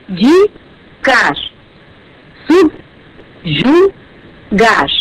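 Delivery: "abdicar" and "subjugar" drawn out, ab-di-car, sub-ju-gar; slow syllable split. Shown as a demonstration. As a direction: spell them out slowly by syllables. (devagar, ab-di-car, sub-ju-gar)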